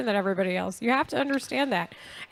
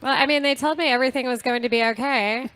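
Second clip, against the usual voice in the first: put-on basic white girl voice. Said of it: "that's your basic white girl voice".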